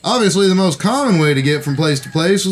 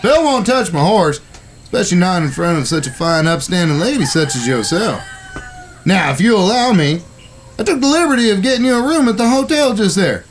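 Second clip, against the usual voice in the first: lightly raised, courtly frontier voice; gallant cowboy. Acted. Brother escorting the lady to the hotel, gallant and polite. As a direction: play the gentleman for the lady. Same high character voice.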